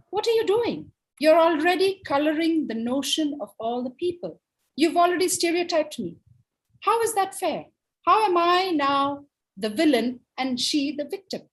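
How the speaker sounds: high-pitched mock outrage; indignant wolf. Wolf objects to being stereotyped as the villain, indignant.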